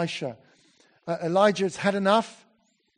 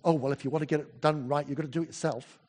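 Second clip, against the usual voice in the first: mock adage; 2 semitones lower, faster than usual. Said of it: "The adage that often we use".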